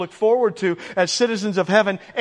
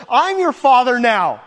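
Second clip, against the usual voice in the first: tender fatherly promises, lightly voiced; God speaking; 2 semitones higher than usual. Preacher voices God reassuring his adopted children, warm and earnest. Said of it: "God says".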